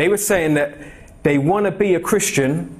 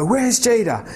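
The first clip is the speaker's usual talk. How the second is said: much higher sing-song question; peekaboo seeking; 8 semitones higher, slower than usual. Retold or imitated. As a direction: play peekaboo with a toddler. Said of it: "and I go".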